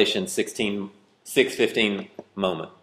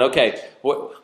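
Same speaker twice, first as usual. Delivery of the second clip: exasperated inner voice; 9 semitones higher, 5 dB louder than usual. Retold or imitated. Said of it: "I'm going".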